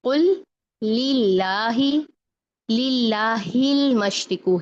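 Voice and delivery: slow chant, light L held in लिल्लाहिल; spread thin lam. Shown as a demonstration. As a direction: recite लिल्लाही slowly with every L spread thin. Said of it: "हिल में भी फैलाएंगे लाम को".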